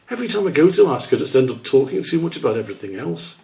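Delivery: a small squirrel fretting to himself; lightly voiced young squirrel. Squish musing about asking Whitetip, quick and light.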